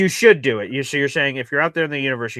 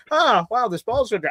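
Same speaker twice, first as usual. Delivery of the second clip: mock excited; 8 semitones higher than usual. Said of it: "You just".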